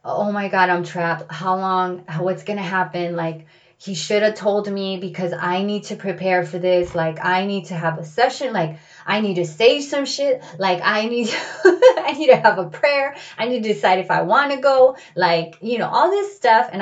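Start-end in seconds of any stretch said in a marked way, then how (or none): 0.0-11.7 rising, louder panicked inner voice with a laugh; trapped in the car, fretting to herself; panicked thoughts. Retold or imitated. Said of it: "I was like". 11.7-13.2 laughing through the words, high and loud. Real, not acted. Laughs inside panic. 13.4-15.0 rising, louder panicked inner voice with a laugh; trapped in the car, fretting to herself; panicked thoughts. Retold or imitated. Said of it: "I was like".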